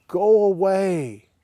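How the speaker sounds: high, loud desperate cry; demon-possessed man. Shown as a demonstration. Possessed man crying out at Jesus, high and loud. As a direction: push them away in terror. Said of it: "he yells and screams".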